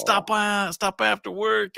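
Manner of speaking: a hint of a nagging dad; lightly voiced parent nagging; insistent parent. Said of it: "And he's".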